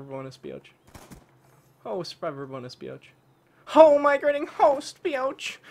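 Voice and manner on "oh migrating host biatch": higher, louder taunting cheer; gloating shout. Real, not acted. Gamer taunting the lobby after a host migration. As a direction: crow over the lucky break.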